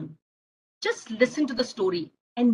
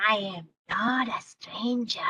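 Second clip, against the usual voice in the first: angry monster; 3 semitones lower, 6 dB quieter than usual. Acted. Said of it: "angry monster".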